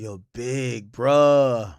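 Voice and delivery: very slow drawn-out Yo, big bro; a rapper impression. Streamer imitating a rapper's interview, slow drawn-out catchphrase. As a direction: stretch big bro out lazily. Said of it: "the rapper's interview".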